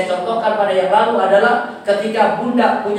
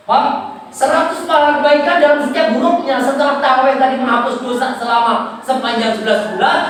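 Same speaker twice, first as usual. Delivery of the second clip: emphatic, projected sermon delivery; raised preaching; 5 semitones higher, 4 dB louder than usual. Real, not acted. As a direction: preach it out with rising conviction.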